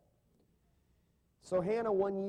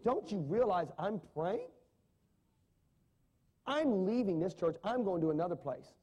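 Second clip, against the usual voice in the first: a put-out churchgoer's indignant outburst, a bit louder; mock outburst; 3 semitones higher, 3 dB louder than usual. Offended churchgoer snapping at the pastor, mock outburst. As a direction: play the offended member storming off. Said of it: "That would probably lead to an outburst of".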